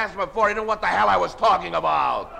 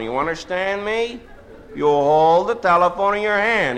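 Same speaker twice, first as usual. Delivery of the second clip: mock menace to a child. Threatening child on phone.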